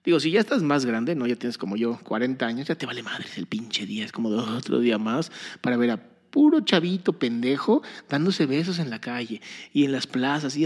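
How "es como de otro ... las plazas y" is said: rushed rant without a breath; all in one breath. Real, not acted. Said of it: "A ver, déjame respirar".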